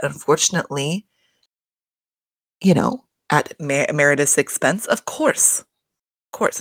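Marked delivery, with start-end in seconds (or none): 4.9-6.6 whispered admission. Real, not acted. Admitting it is sad.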